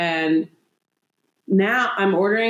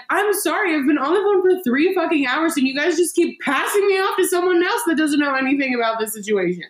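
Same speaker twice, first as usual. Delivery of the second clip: retold yelling; 8 semitones higher than usual. Caller venting at insurance reps, mock yelling. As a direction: replay the moment you snapped at the phone reps. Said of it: "I was, like, yelling at these people".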